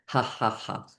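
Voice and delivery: unvoiced breathy ha ha; softly breathed morning laughter; whispered laugh. Shown as a demonstration. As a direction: laugh under your breath. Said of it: "Have a little vision of a great day".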